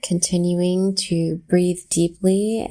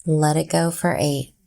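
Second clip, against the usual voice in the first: calm, unhurried meditation count with long pauses; guided breathwork; 3 semitones lower, slower than usual. Real, not acted. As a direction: count the breath down slowly and evenly, settling slightly lower. Leads slow counted breathing exercise.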